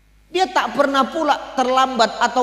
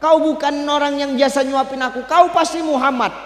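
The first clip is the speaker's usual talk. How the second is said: higher, sure accusation; blind man accusing; 5 semitones higher than usual. Acted. Blind man accuses Abu Bakar of being Muhammad, higher. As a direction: accuse him outright. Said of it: "kata orang buta ini".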